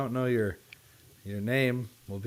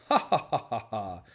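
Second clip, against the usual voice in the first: fake laugh; 2 semitones lower than usual. Laughs at own cartoon.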